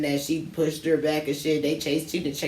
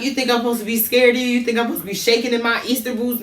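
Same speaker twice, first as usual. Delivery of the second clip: grandma; 7 semitones higher, 3 dB louder, faster than usual. Retold or imitated. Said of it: "She like".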